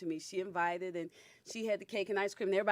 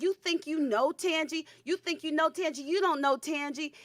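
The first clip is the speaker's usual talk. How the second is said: sneering, raised voice; taunting; 6 semitones higher than usual. Retold or imitated. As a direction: needle her mother with a dare. Girl taunting on phone.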